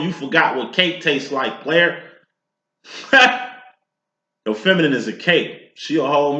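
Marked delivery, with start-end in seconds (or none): 2.9-3.5 quick high laugh; a brief amused laugh after the tease; laughing at the masculine; short laugh. Real, not acted. Laughs after teasing player.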